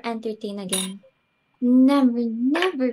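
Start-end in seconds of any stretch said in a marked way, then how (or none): 1.6-2.9 a loud exasperated "Never"; emphatic never. Acted. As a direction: throw out "Never" in despair. Hostess vows never to entertain.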